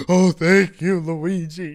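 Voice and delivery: high, loud thank-you; grateful Toad. Retold or imitated. Toad thanking Luigi for the rescue, high and loud. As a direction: gush it like a rescued little mushroom. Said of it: "He's like, gasps".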